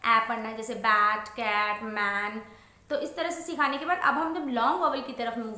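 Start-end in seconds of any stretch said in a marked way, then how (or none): 0.1-0.3 "ए" as a loud, open æ; "ए" as the short phonic a, louder; short vowel. Shown as a demonstration. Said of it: "हम short vowel के साथ". 0.7-2.4 "बैट, कैट, मैन" with open short æ; "बैट, कैट, मैन" read separately with a short a; short vowel examples. Shown as a demonstration. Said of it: "short vowel सिखा चुके हैं".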